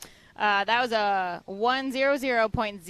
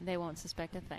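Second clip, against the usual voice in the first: hushed, very soft scheming; mock conspiratorial; 3 semitones lower, 12 dB quieter than usual. Co-host joins a pretend secret plot, hushed. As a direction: play the secret plotter quietly. Playing along with conspiratorial hush.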